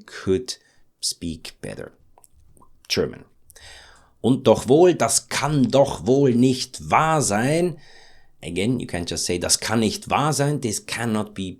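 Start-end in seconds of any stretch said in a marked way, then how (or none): 4.2-7.8 slow, emphatic, stretched doch wohl; can't believe it, slightly outraged; indignant disbelief. Shown as a demonstration. Teacher showing stronger disbelief. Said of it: "Makes it a little bit stronger".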